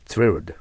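"thrilled" begun like "tsu", then "red". Shown as a demonstration. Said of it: "つと言えば言いやすいです". (thrilled を「つ」で始めて発音)

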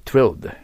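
"thrilled" as one punched word with th plus r; careful thrilled. Shown as a demonstration. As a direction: model the hard "thr" of "thrilled" firmly. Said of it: "発音難しい". (thrilled の r を意識して強く発音)

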